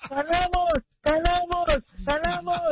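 high nasal cheer, ganamos said like kalamos; nasal gangoso cheer. Acted. Godfather comes in, nasal gangoso cheer of ganamos. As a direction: shout ganamos through a blocked nose as kalamos. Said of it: "normal, ¿verdad?".

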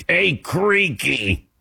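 high, stretched-out mock holler; imitated calling out. Host imitating Jay greeting the colleague, mock calling out. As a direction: hail him with long, drawn vowels, imitating. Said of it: "He calls him".

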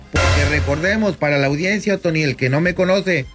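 normal talking voice

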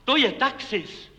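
slow, stressed call of the jump's name; retold shout. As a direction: announce it slowly, pressing on "je". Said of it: "Zařval jsem nahlas".

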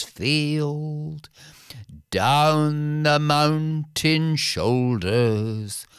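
slow, measured poem reading; ballad recitation. Acted. The bard recites a sad ballad to the court, slow and lyrical. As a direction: draw the verse out like an old bard. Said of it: "to the ballad of the tinker's wife".

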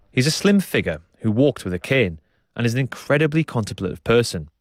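measured, scripted radio presenter delivery; documentary narration. A narrator's reading. Presenter introducing the samba school story to listeners, documentary narration.

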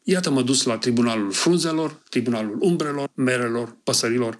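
measured, expressive reading of a ballad; poem recital. Acted. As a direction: read it like a poet at a public reading. Reads his own poems aloud. (recitare expresivă de poezie)

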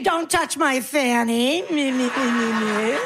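mock mishearing old lady, a touch slow; lightly hammed deaf grandma answering the wrong words; pretend deaf granny. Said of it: "what I do is I pretend I'm deaf".

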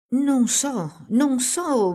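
acuto, da bambino spaventato che balbetta; un bimbo che si ritrae impaurito, voce alta; balbettio impaurito. A narrator's reading. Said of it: "balbettò il bambino impaurito". (balbettato con paura, voce acuta)

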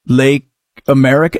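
low, scornful rhetorical question; mocking question. Shown as a demonstration. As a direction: ask it with dry disbelief. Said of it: "You know what they care about?".

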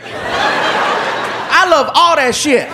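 slow, laughing, put-on voice. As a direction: chuckle through it. Guest laughing.

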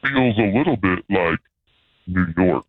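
lightly disguised mystery caller; a hint of a shady phone caller.

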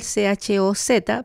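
letters spelled out slowly; slow spelling. Shown as a demonstration. Teacher spelling a word for learners, slow letters. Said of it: "se escribe con la letra Z".

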